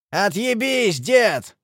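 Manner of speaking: rough, hostile retort; angry growl. A narrator's reading. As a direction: snarl at the old man to back off. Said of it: "прорычал Лиса".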